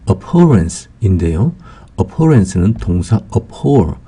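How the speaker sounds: slowly spelled-out vocabulary word; slow word drill. Shown as a demonstration. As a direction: say "abhorrence" very slowly for learners. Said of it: "vocabulary word slowly pronounced".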